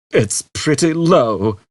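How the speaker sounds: Zaphod, slight whistle. A narrator's reading. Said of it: "with a slight whistle".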